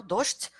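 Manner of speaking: docht ending in voiceless sh-t; devoiced cluster. Shown as a demonstration. Teacher summing up the rule, devoiced cluster. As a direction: say "docht" as dosht. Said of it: "on prononce comme chute".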